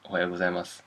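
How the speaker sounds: Ohayo gozaimasu finishing in s, gozaimas; silent final u. Shown as a demonstration. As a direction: drop the u at the end of Ohayo gozaimasu. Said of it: "not pronounce the last su".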